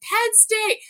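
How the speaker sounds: high, loud mock scream of Penn State; screaming the answer back across the street; retold scream. Stranger answering the chant with a high scream. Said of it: "he just screamed".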